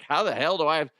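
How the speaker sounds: mock New York accent. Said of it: "I'm like".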